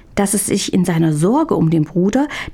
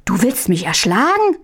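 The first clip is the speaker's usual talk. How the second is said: shocked, frightened question; horrified; 3 semitones higher than usual. Acted. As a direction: recoil in alarm. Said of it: "fuhr Hähnchen entsetzt zurück". (entsetzt, erschrocken)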